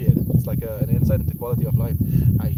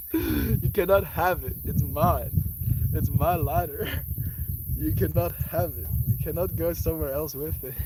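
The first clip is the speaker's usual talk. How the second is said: higher-pitched mock firmness; playful refusal; 5 semitones higher than usual. Streamer keeping lighter from pet, playful refusal. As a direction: lay down the law to a pet.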